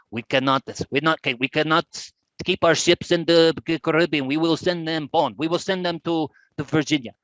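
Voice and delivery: lightly put-on French accent as the French commanders; bad French accent. Presenter voicing the French fleet's decision in a bad French accent. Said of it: "That's a very bad French accent".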